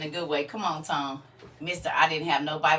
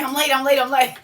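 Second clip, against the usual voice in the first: mimicking late viewers; 6 semitones higher, 9 dB louder, faster than usual. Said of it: "Everybody used to come in and say".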